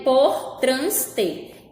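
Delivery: POR, TRANS, TER slowly, one at a time; separate syllables. Shown as a demonstration. Teacher showing scrambled pieces, por trans ter slowly separated. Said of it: "vou dar uma dica".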